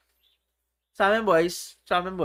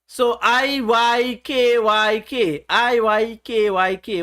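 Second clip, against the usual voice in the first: slow spelled letters; slower than usual. Shown as a demonstration. Teacher slowly spells the acronym to viewers, drawn out. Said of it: "What does that mean?".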